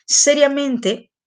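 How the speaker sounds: seriamente slow, high and loud, each syllable drawn out; teacher stretching seriamente to drill the word; stressed, drawn out. Shown as a demonstration. Teacher to students, stretching the key word slowly and loudly. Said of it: "se refiere a la manera como".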